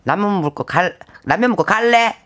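stronger southern Gyeongsang dialect; 경상도 남부 사투리. Shown as a demonstration. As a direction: hit it harder, like a Busan local. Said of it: "조금 세요". (억센 경상도 남부 사투리로)

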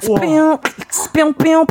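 high, rhythmic cicada beatbox sounds; beatbox a cicada chirp. Shown as a demonstration. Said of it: "스피어 하는 건데".

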